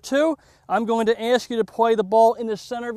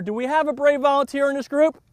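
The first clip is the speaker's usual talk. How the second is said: calling out; 6 semitones higher, 8 dB louder than usual. Real, not acted.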